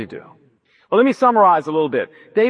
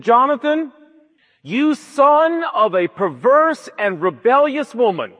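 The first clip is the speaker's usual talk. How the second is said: mock furious father; 3 semitones higher than usual. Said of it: "And Saul went ballistic".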